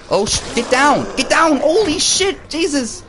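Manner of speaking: high, loud panicked shouting at the screen; yelling in real panic as a zombie lunges. Real, not acted. Gamer yells at the zombie to get down, panicked.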